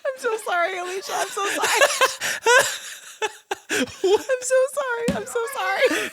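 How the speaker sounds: high, giggly sorry through laughter; laughing apology. Real, not acted. Husband apologizes to his wife while laughing, high giggly.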